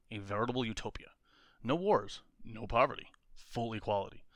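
punchy promo read; pitch voice. Acted. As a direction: sell it like a comic blurb. Pitching a fake comic series.

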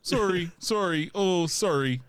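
hammed-up Canadian politeness; Wolverine. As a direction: keep apologizing in a mock-Canadian accent. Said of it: "be really Canadian".

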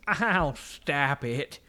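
drawn-out, coy put-on voice; hammed-up flirtatious swoon; mock flirty cashier. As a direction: gush slowly, imitating a flattered cashier. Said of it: "and she's".

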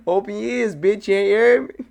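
high, loud mock-aggressive taunt; mock tough guy. Taunting his friend in a high, loud tough-guy voice. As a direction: lean in and taunt him loudly.

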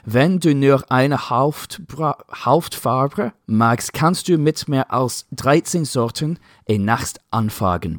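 put-on slow, careful read of a German slogan in a clumsy English-speaker's German accent; terrible German accent. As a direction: sound out the German words slowly with a heavy English accent.

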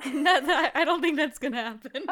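talking through laughter; amused, laughing dismissal; laughing doubt. Real, not acted. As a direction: laugh off the hopeful idea. Laughs off co-host's hopeful idea.

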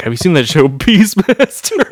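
a hint of an eager dad pitching a show; imitating dad. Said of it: "he'd be like".

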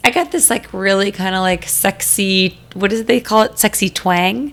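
deep raspy cold voice; husky sick voice. Real, not acted. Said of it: "deep, raspy voice this evening".

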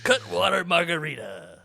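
loud mock commercial tagline; ad announcer. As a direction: sell it like a TV ad.

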